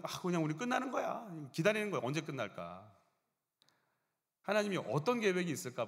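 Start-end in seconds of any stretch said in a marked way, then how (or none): 0.0-2.9 resigned worrier. Retold or imitated.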